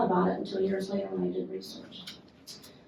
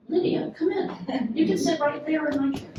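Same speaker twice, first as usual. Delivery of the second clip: calling out; 7 semitones higher, 3 dB louder than usual. Real, not acted. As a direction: call her in warmly from afar. Calling latecomer into room.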